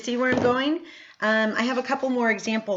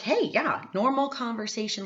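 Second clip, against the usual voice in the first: casual hey; 4 semitones higher than usual. Retold or imitated. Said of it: "I'm just like".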